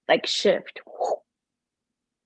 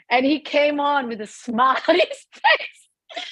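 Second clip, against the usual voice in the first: tearful; 6 semitones higher than usual. Real, not acted. Recalling meeting Jesse, emotional.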